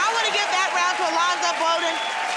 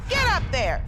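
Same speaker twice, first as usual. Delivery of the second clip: announcer shout; 2 semitones higher than usual. Acted. Host announces round title.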